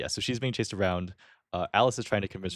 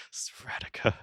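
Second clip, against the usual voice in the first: whisper; 4 dB quieter, slower than usual. Real, not acted. Echoing the joke word softly.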